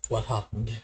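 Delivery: soft, hesitant, acted concern; worried plea. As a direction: ask quietly, afraid of the answer. Acted worried plea to bloodied Corbin.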